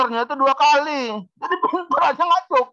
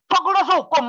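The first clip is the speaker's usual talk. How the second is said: higher, emphatic, punching Fakultas; firm answer; 5 semitones higher than usual. Shown as a demonstration. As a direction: answer proudly and sure. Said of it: "kita nggak tegas jawabnya". (jawaban tegas dan percaya diri)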